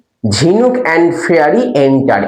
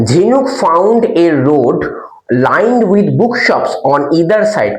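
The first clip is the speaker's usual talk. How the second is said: very slow answer read aloud; slow dictation; much slower than usual. Shown as a demonstration. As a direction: dictate it word by word. Dictating final answer slowly.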